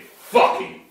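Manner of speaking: normal talking voice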